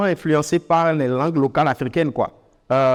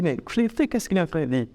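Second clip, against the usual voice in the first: softer baffled question to oneself; puzzled listener; 5 dB quieter than usual. Acted. Listener wondering to himself about the word, puzzled. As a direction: wonder what that odd word means. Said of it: "quand vous allez vous dire".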